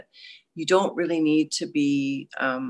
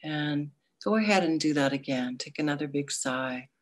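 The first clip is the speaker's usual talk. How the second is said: guided meditation; 3 dB quieter than usual. Acted.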